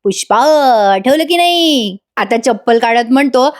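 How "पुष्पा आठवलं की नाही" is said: a hammed-up romantic film hero asking; Rajesh Khanna style. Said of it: "Rajesh खन्नाची style मारत म्हणतो". (फिल्मी नायकाची नक्कल, हळू आणि उंच शेवट)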